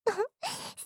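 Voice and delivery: small, soft giggle; teasing giggle. Acted. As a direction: let out a quiet little laugh, teasingly. Teasing maid laughs before mock apology. (くすっと小さな笑い)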